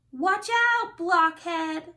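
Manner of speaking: high, loud mocking yell; lion's shout. A narrator's reading. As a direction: shout it down at him like a bully. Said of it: "the lion shouted".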